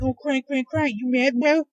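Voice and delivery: high, put-on taunting voice; mocking heckler. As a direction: jeer like a scornful internet troll. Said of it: "somebody's gonna sit there and be like".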